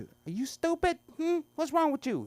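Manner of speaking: ex-wife appalled by the bottle; mock outraged woman. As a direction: squeal it at him in disbelief.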